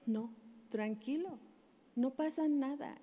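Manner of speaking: put-on calm the child down gently; soothing a crying child. Shown as a demonstration. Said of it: "tu hijo viene llorando".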